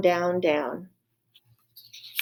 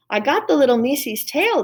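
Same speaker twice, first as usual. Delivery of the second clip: higher and louder, pleased with herself; proud Mig; 6 semitones higher, 4 dB louder than usual. Acted. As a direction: show off the tail.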